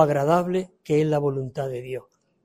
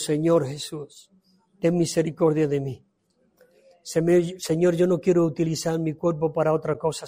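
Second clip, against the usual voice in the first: earnest prayer. Acted. Voices a model prayer. (oración íntima y sincera al Señor)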